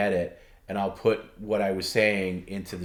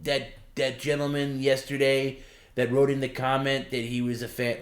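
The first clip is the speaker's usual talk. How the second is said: imitating Perry; 5 semitones higher than usual. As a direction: play him proud of a fan. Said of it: "He does".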